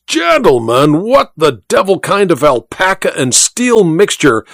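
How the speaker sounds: indignant, scolding bluster; outraged. Acted. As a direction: huff and bluster at him. Outraged proprietor scolding his editor.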